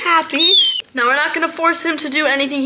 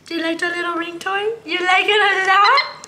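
sing-song pet voice, much higher; baby talk; 8 semitones higher, 3 dB louder than usual. Acted. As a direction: coo at him like a tiny baby. Coos to monkey.

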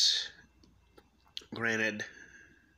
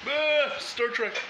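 sarcastic exclamation; 13 semitones higher, much slower than usual. Acted. Sarcastic high drawn-out exclamation.

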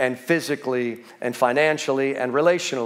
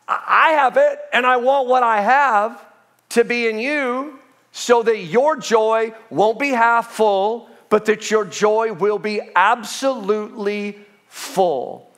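higher, emphatic preached quote; preaching as Jesus; 6 semitones higher than usual. Acted. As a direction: proclaim the promise, slowing towards the end.

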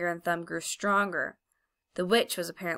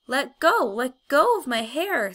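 high, loud, slow angry cry; angry shouting; 6 semitones higher, 6 dB louder, slower than usual. A narrator's reading. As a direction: yell at her to let go. Polly struggles with the witch.

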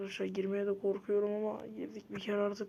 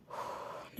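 exasperated sigh; 11 dB quieter than usual. Real, not acted. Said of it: "Çok sinirlendim".

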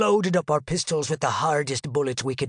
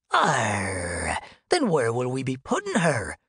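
low gruff pirate; 6 semitones lower than usual. Retold or imitated. Shipmate asks where.

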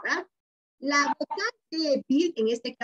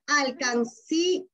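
"alcancía" slowly split into its syllables; slower than usual. Shown as a demonstration. Teacher shows the class the separated vowels, "alcancía" slowly syllabified. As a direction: say "alcancía" slowly, keeping the final vowels apart. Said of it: "la regla del silabeo".

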